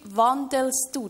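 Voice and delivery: "wandelst" drawn out slowly with weight; stress on wandelst. Shown as a demonstration. Speaker pointing out the psalm's wording, "wandelst" slow and stressed. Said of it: "Da steht nicht".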